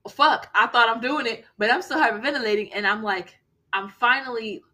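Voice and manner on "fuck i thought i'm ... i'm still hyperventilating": frantic panicked reply. Retold or imitated. Panicked reply during attack.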